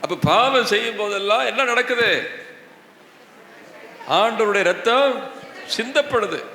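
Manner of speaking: high-pitched, insistent preaching; impassioned rebuke. Real, not acted. Preacher rebuking congregation over sin.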